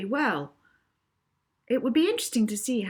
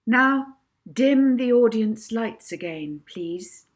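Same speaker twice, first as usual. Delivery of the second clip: louder firm command to the light operator; commanding order; 3 semitones higher, 7 dB louder, slower than usual. Acted. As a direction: call it out across the hall to the booth.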